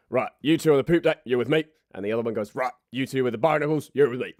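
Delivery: bossy pirate commands. Acted. Pirates dividing the group.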